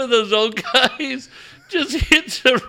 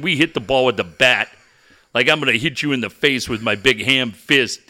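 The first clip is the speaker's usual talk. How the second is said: low blustering coach rant; a hint of a fired-up talk host; angry coach; 10 semitones lower than usual. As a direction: coach trashing a rival on air, lower.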